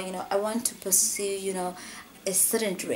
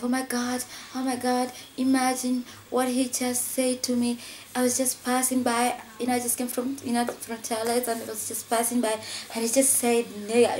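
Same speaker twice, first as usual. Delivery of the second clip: higher-pitched imitation of an upset friend; retold tearful complaint; 4 semitones higher than usual. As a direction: complain in disbelief, imitating her distress. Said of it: "she came to us complaining, crying".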